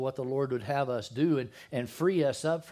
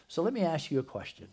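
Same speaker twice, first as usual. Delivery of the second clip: asking out; 4 semitones higher than usual. Real, not acted. Preacher repeats question to congregation.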